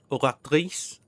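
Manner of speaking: "Ogatrice" with guttural Rs, oh-rak-TREESS; French-style "Ogatrice"; French throaty R. Shown as a demonstration. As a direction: roll both Rs of "Ogatrice" in the throat. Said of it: "you need to somehow roll it".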